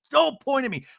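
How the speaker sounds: high, loud mock command; mock testosterone outburst. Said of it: "maybe the testosterone point".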